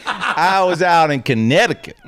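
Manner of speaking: put-on Texas accent. Shown as a demonstration. Trying Connecticut in the accent, amused Texan. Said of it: "a word I never said with this accent before".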